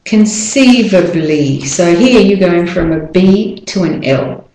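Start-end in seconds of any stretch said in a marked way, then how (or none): 0.1-1.7 "Conceivably" slowly, with weak A before the L; careful model pronunciation. Shown as a demonstration. Teacher models the next word for learners, slow careful "Conceivably". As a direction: say "Conceivably" slowly as cun-SEE-vuh-blee. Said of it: "the A in conceivably is the weak syllable".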